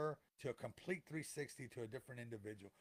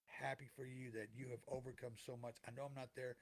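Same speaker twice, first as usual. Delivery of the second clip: soft, tender words from beyond, softer; gentle voice of a lost loved one; 2 semitones lower, 5 dB quieter than usual. Pretend. A lost loved one comforting the grieving listener, softly and tenderly. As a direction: speak as the missed person, comforting. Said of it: "are they gonna say".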